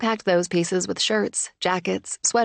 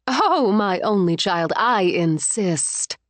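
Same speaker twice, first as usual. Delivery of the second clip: icy fury; slower than usual. Acted. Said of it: "Iced fury came into her mother's".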